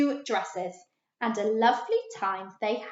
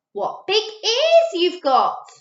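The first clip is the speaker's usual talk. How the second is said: put-on little girl; 9 semitones higher, 8 dB louder, slower than usual. A narrator's reading. Red Riding Hood in story.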